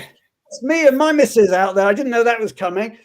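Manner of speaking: delighted, seeing your photo unexpectedly; real surprised delight; pleased surprise. Real, not acted.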